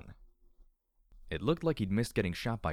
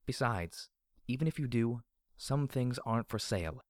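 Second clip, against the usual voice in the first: higher-pitched female boss; Bottle Cap; 4 semitones higher than usual. Acted. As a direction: turn the offer down on principle. Store boss refuses the villain's offer.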